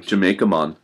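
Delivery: half-hearted Jamaican accent; bad Jamaican accent. Shown as a demonstration. Joking about the word mon, a bad Jamaican accent. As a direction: throw in a badly faked Jamaican accent. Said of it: "that was such a bad accent".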